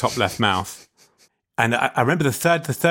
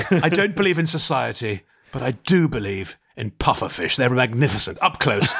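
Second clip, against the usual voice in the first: Margaret Thatcher impression. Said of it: "That was Margaret Thatcher".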